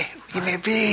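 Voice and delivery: slightly strained, high put-on voice; high, drawn-out mock bewilderment; mock incredulous quote. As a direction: draw it out high, hamming up the disbelief. Acting out the film's confrontation.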